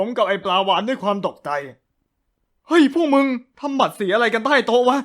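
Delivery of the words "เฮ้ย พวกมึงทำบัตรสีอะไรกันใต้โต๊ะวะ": shocked question. Acted. Friend shocked at scene.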